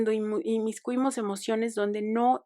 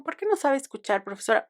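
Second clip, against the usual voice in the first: a pointed, mildly reproachful "¿Por qué no sabe escuchar, profesora?"; reproachful question; 4 semitones higher than usual. Retold or imitated. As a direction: lightly imitate the challenge to the teacher. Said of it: "lo dije en ese tono". (reproche mordaz a la profesora, apenas actuado)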